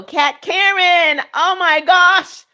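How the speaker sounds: thrilled to see her in the live; delighted greeting. Real, not acted.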